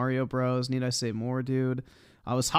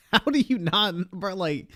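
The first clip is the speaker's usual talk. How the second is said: laughing in disbelief; 6 semitones higher than usual. Real, not acted. Mocking the other streamer's mistake.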